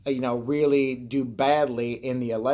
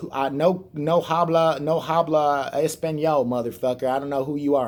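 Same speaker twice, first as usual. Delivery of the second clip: fake Spanish. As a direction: pretend not to speak English, in a thin Spanish accent. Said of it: "He pretends, you know, he goes".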